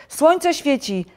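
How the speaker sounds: high, loud wake-up shout. A narrator's reading. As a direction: urge the sleeper up at full voice. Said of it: "krzyczał Żabek".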